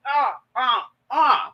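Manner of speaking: short grunts, one per throw; imitated throwing noise. Vlogger mimics cooks throwing seasonings in, short effort noises. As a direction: punctuate each imagined toss with a little grunt. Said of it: "They were like".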